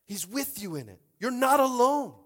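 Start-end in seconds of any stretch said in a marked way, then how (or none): 1.2-2.1 high, loud cry of reassurance; preached shout. Acted. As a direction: shout it over the congregation. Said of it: "repeats line as contrast".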